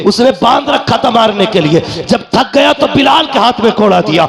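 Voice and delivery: high, ringing impassioned sermon delivery; fervent declamatory preaching, pitched high; full-force preaching. Acted. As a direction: drive the story home at full pitch.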